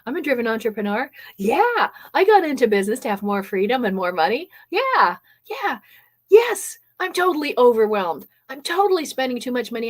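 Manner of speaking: eager, rising yeses, quickening; excited recognition. Pretend. Listener realising the pitch fits them, eager. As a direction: perk up like a hooked listener. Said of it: "and then you perk up".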